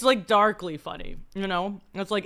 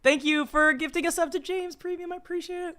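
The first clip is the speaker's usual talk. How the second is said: eating while talking; talking through crunchy chips; crunching chips; 9 semitones higher than usual. Real, not acted. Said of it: "Sorry for the crunching".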